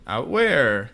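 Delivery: loud, playing clueless; feigned ignorance. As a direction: act as if you have no idea. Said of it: "pretends like he doesn't know".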